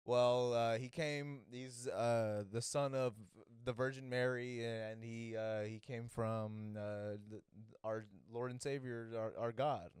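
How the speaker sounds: lightly acted stalling, full of uhs; mock hesitant. Defendant asked where Jesus is from, mock hesitant. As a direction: feel your way haltingly through the answer.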